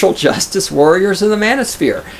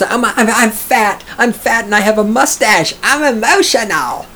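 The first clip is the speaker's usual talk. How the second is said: higher whiny mock voice, stammering; mocking whiny feminist; 6 semitones higher than usual. Streamer mocking feminists, higher whiny caricature. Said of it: "The feminist".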